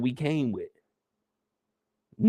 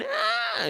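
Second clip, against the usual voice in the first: short startled shout; 5 semitones higher, 6 dB quieter than usual. Shown as a demonstration. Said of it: "you ain't gonna be running".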